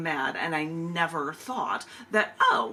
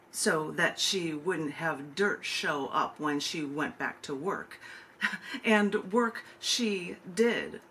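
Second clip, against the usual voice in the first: slower, measured poem recital; poetry reading; slower than usual. Acted. Poet reading her Marie Curie poem to the open mic, measured recital. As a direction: read it like a tribute, letting lines land.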